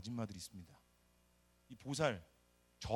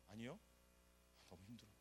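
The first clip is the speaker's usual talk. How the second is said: weary sigh; 3 semitones lower, 16 dB quieter than usual. Retold or imitated. Admitting hardship.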